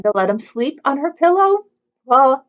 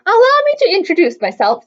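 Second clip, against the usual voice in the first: sly frog; 7 semitones higher, 4 dB louder than usual. A narrator's reading. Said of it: "said the sly frog".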